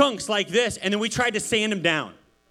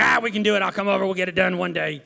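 louder, hearty buddy promise; a hint of a hammed-up tough guy; Matt's man talk; 3 dB louder, faster than usual. Pastor imitates Matt promising to fix the room, hearty man talk. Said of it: "that's just his man talk".

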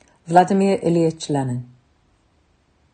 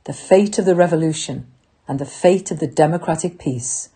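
ranting dictator speech. Acted. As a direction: stir the troops to fight. Rallying call to soldiers, workers.

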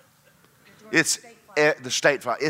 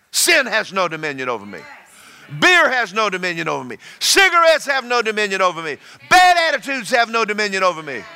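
starts plain and builds to a louder, higher proclamation; building declaration; 4 semitones higher, 4 dB louder than usual. Shown as a demonstration. Preacher showing the congregation how to speak to sin, building to loud proclamation. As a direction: declare it, gaining force each line.

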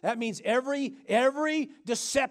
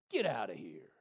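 very low, hushed dismissal; whispered command; 8 dB quieter than usual. Acted. Child of God expelling the deceiver, whispered command. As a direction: whisper the order to leave.

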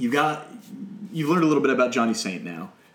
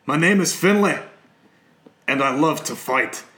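loud, higher-pitched mock Irish entrance line; bad Irish accent; 4 semitones higher, 5 dB louder than usual. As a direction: belt it out in a shaky attempt at an Irish accent. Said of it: "That's not a great Irish accent".

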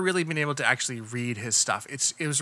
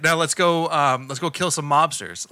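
Trump-like Cage; 4 dB louder than usual. Retold or imitated. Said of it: "that's exactly it".

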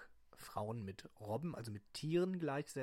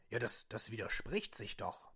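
disguised deep voice; 3 semitones lower than usual. Acted. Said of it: "meine Stimme zu verstellen".

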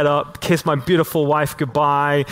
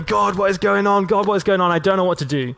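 crying out to God; 5 semitones higher than usual. Retold or imitated. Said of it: "I'd be back in the car going".

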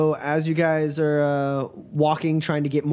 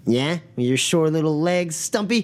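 mock his short legs; drunken mockery; 3 semitones higher than usual. Drunk mocks short character.

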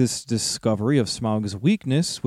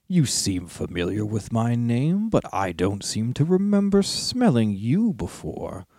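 growling dragon guarding treasure; slower than usual. Acted. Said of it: "said the dragon".

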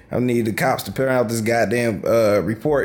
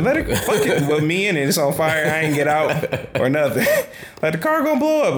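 laughing; 4 semitones higher than usual. Real, not acted. Laughing about fiery crash.

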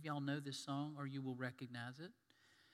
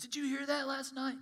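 high, loud amazed question; family member asking how you slept, surprised and high; 9 semitones higher, 5 dB louder than usual. Retold or imitated. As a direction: ask it in disbelief. Family asks about the storm.

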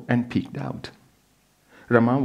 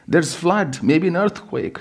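higher, louder frantic warning; frightened cry; 8 semitones higher, 3 dB louder than usual. Acted. Wife crying to her husband about the flood, frightened. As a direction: cry out the danger. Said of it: "she cried".

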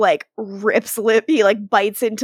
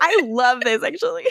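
mock-performative gush; 3 semitones higher than usual. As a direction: fake enthusiasm, lilting up. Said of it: "He's like".

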